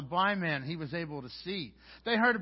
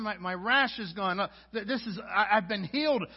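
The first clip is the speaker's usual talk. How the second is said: louder, rising joy; excited healed leper; 3 semitones higher, 5 dB louder than usual. Acted. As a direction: burst out with disbelief and delight.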